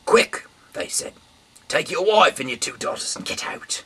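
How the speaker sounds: high, loud urging; urgent command. Acted. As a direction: hurry them along. Angels urging Lot at dawn.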